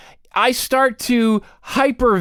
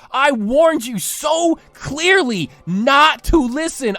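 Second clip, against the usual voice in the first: mock scolding; 4 semitones higher, slower than usual.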